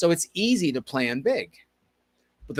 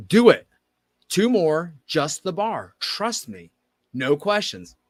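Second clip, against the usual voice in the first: firm order; 3 semitones higher, 5 dB louder, slower than usual. Retold or imitated. Coach insisting, no questions.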